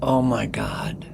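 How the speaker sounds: breathless, hushed Oh, my God; slow stunned whisper; awed whisper. Real, not acted. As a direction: whisper it, moved and amazed. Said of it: "awed reaction to the verse".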